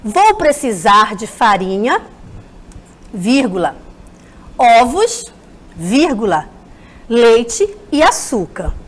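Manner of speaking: lendo devagar, marcando cada vírgula; leitura pausada. Shown as a demonstration. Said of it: "Prestem atenção na minha leitura". (leitura didática, pausando nas vírgulas)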